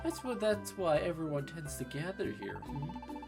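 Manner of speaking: lightly voiced upbeat companion; cheerful game character. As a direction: read the partner's lines brightly. Reads game partner's lines.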